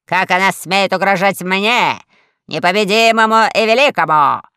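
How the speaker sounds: grandly offended, building in volume; pompous outrage. A narrator's reading. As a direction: puff yourself up, affronted. The admiral rants at being threatened.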